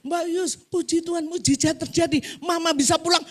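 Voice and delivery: acted joyful exclamation; excited good news. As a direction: announce the miracle with rising excitement. Relaying daughter's miracle news.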